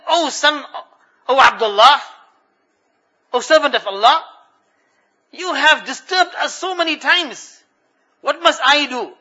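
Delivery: high, loud weary complaint; exasperated mother. Retold or imitated. Tired mother scolding the caliph, high and exasperated. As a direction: push back at the man who keeps bothering her.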